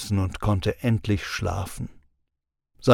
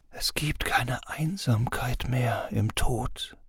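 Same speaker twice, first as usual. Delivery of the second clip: slow, sweet, tempting whisper; seductive whisper; 8 dB quieter, slower than usual. A narrator's reading. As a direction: breathe it softly like a lure. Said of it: "flüsterte eine Stimme süß und verführerisch".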